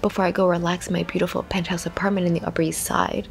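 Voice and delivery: mock-glamorous whisper; playful whisper. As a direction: whisper like a rich girl. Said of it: "pretending that I'm Serena Van der Woodsen".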